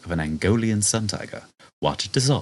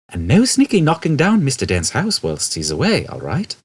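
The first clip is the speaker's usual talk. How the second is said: stern warning; 8 semitones higher, 5 dB louder than usual. Acted. Ford warning Prosser.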